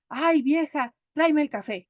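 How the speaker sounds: a hint of a bossy old husband; demanding husband. Husband ordering coffee from his wife, mildly demanding. Marido mandón en un cuento.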